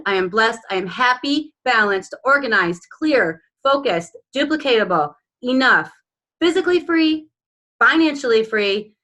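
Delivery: earnest reading of a personal vision statement; proud, measured affirmation read aloud. Acted. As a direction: declare each line like a vow. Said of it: "Let's hear it, Carla".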